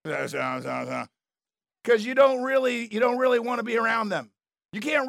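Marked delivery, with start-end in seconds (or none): 0.0-1.0 fake cheerful greeting. At the party, greeting Aunt Karen with forced delight. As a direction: greet the unwanted relative with a fake laugh. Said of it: "you're gonna be like".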